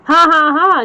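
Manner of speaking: mock gleeful laugh from the pig; light hammed-up laughter. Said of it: "held his sides with laughter".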